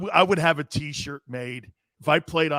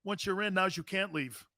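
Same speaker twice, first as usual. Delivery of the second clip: mock tough-guy line; 10 dB quieter than usual. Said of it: "pass around the link".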